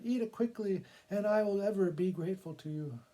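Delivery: a scared woman urging the cat on; urgent woman. Acted. Frightened woman begs cat.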